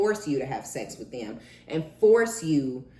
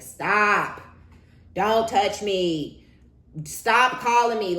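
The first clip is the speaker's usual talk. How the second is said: loud, higher cry of stop, slowly; fed-up yell; 5 semitones higher, 7 dB louder, much slower than usual. Retold or imitated. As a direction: shout it like you've had it. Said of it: "being like".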